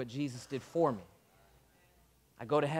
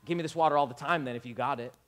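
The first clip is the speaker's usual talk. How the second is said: sarcastic; 3 semitones lower than usual. Retold or imitated. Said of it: "I think there was some sarcasm here".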